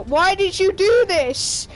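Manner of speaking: hammed-up outrage at his brother; imitating dad yelling. Dad yelling at his brother over the DNA test, mock furious. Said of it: "My dad is yelling at his brother".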